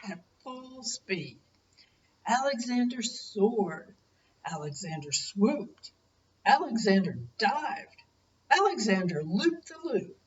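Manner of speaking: gentle storybook reading voice; story narration. Acted. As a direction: read it like a bedtime picture book. Grandparent reads picture book aloud.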